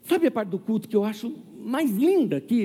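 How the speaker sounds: lightly voiced shy old lady; shy elderly lady. Shy older sister tells her pastor, lightly voiced timid lady. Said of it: "ela tem bem tímida assim".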